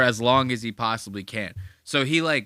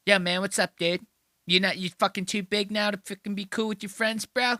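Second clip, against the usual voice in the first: mocking higher voice of a whiny caller; Robert Kelly; 7 semitones higher than usual. Comedian leaves Nate a voicemail, mock-aggrieved impression. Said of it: "he finally leaves Nate a voicemail. He goes".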